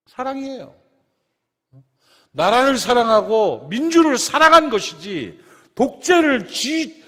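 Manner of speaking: loud, ringing pulpit voice; full-force preaching. Acted. Pastor preaching passionately to his congregation, loud and fervent. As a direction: preach it out to the whole church.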